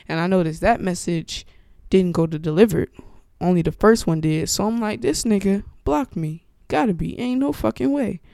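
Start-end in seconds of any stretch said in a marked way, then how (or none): 5.0-8.2 higher-pitched disbelief, retold; incredulous realization. Buyer realizing the seller blocked them, incredulous. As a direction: voice rising in disbelief as it dawns.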